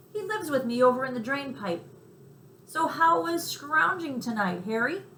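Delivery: a streetwise little mouse, talking up; chatty mouse. A narrator's reading. Mouse explains New York ways to the cricket.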